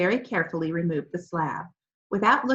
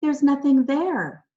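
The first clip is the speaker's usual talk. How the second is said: slow and louder, choked up; choking voice; 6 semitones higher, 6 dB louder, slower than usual. A narrator's reading. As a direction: force the words out past a lump in the throat. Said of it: "he said in a choking voice".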